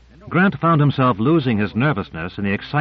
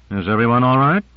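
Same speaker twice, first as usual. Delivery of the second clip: sardonic call. Acted. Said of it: "Grant called out sardonically".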